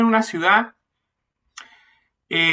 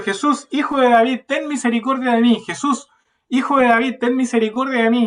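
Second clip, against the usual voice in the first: mock cry out; 5 semitones higher than usual. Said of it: "Entonces gritó diciendo".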